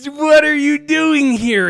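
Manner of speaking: high, loud, slow disbelief; shocked question. Retold or imitated. Retelling his shock at seeing his friend at the studio, high and loud. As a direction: call out in disbelief.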